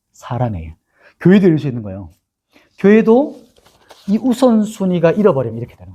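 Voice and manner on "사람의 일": hushed whisper. Real, not acted. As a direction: breathe it out as a secret. Whispered aside in sermon. (속삭이듯 낮게)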